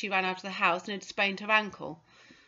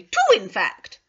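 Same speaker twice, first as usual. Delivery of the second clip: fretful; 9 dB louder, slower than usual. Acted. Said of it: "she said fretfully".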